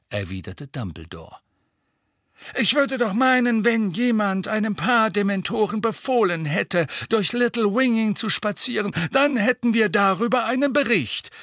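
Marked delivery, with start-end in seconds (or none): 2.6-11.3 barking. Acted. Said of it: "bellte Fudge".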